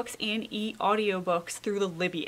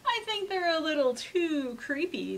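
Mom's voice; 6 semitones higher than usual. Acted. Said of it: "said Mom".

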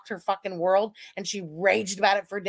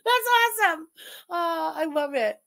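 tag; 6 semitones higher than usual. Real, not acted. Cracking up at a chat comment.

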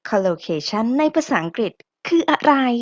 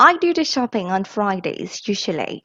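slow model sentence; much slower than usual. Shown as a demonstration. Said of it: "อีกครั้งนะคะ one more time".

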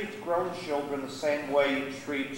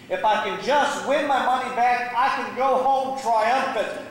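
higher, emphatic resolve; insistent hope; 5 semitones higher than usual. Acted. Gambler wanting to win it back, insistently. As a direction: push each phrase out with determination.

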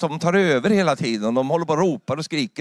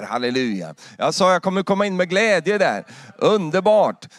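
raised, emphatic preacher's declaration; fervent preaching; 4 semitones higher than usual. Real, not acted. Preacher assuring congregation he will enter heaven with joy, fervent. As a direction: declare it with full conviction.

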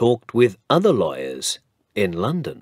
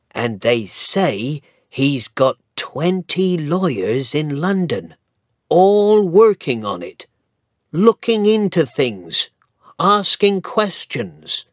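higher, rising, louder gossip; gossiping villager; 7 semitones higher, 4 dB louder than usual. Acted. Second villager adding gossip about the lawyers, excited. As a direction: pile on the news breathlessly.

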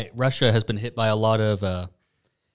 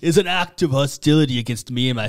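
laughing quote; 4 semitones higher than usual. Retold or imitated. Quoting protester's statement.

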